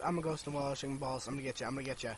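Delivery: a hint of a moaning ghost. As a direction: croon it low like a spook in the wall. Ghost voice repeated.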